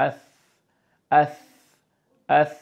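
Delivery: আস said with a soft, unwhistled s; soft sa sound. Shown as a demonstration. Teacher showing the soft sa letter, gently. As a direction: soften the s in আস, no whistle. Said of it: "soft করে ফেলতে হবে".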